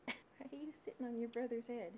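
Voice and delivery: whispered through a laugh; giggling whisper to the birds. Real, not acted. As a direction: breathe it out amused at the bird.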